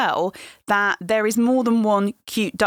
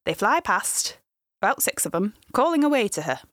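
bad Lancashire accent. Shown as a demonstration. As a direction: have a go at a gentle Lancashire accent. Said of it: "if I may do a terrible Lancashire accent".

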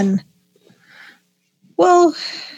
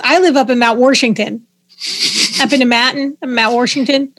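Pittsburgh accent. Shown as a demonstration. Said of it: "you have your own language in Pittsburgh".

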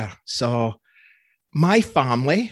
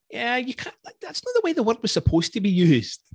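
higher-pitched mock pedant; retold objection; 8 semitones higher than usual. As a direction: object as a word geek, pitched up. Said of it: "And I'm like".

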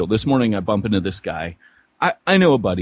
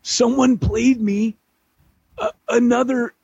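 high-pitched, squeezed by laughter; laughing while talking; 12 semitones higher than usual. Real, not acted. Friend recalling a played voicemail, high and laughing. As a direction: talk through real laughter.

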